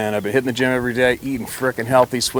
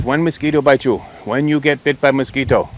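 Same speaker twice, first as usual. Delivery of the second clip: doctor's voice; 3 semitones higher, 3 dB louder than usual. Retold or imitated. Imitating the doctor's questions.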